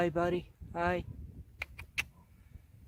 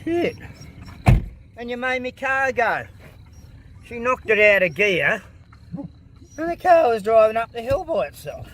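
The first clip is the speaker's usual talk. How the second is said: alarmed excitement; 5 semitones higher, 5 dB louder than usual. Real, not acted. Car rolling, koala on road.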